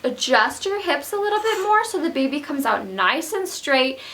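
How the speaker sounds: sweet midwife. Retold or imitated. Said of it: "super sweet".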